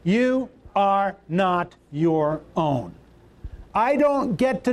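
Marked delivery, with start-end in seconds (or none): 0.0-2.9 slow, deliberate, every word spoken apart; slow congregational repeat. Shown as a demonstration. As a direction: say it back slowly with the crowd. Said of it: "Say that right out loud".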